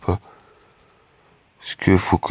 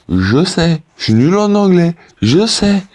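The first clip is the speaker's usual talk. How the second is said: much higher-pitched, squealed mock confession; mock exasperated admission; 9 semitones higher than usual. Vlogger answering viewers who mock his English accent, high-pitched mock exasperation. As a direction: own up in an exaggerated high voice.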